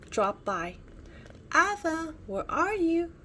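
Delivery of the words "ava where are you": high, loud call for a friend. A narrator's reading. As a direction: call out searching for Ava. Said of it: "cried Nina".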